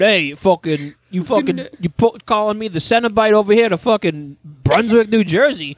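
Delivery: put-on a light North Jersey tough-guy accent. A light North Jersey accent for Pinhead among friends. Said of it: "Pinhead from North Jersey".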